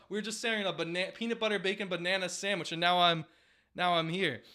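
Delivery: put-on high, laughing voice of a just-woken old ballplayer; hammed-up old man pulled from heaven; groggy Ted Williams. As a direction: whine through giggles about the dream.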